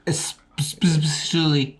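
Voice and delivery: "especially" whispered slowly, sounded out. Shown as a demonstration. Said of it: "do you say especially or especially".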